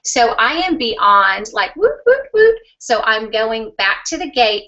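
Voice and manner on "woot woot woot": high squealing woot woot woot, louder; giddy little victory whoop; excited cheer. Retold or imitated. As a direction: cheer like you just won. Celebrating getting the pass.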